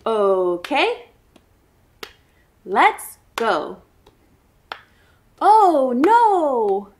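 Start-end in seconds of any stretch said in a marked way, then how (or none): 5.4-6.9 surprised. Acted. Spotting swamp in chant.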